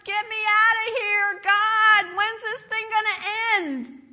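high, loud wailing plea to God; acted-out desperate begging, crying out. Believer in trials praying for rescue, acted loud begging. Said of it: "And you're begging".

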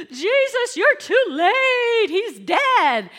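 high, loud wailing plea; distraught cry. Acted. Mourners wailing to Jesus that he came too late. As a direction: cry it out in grief.

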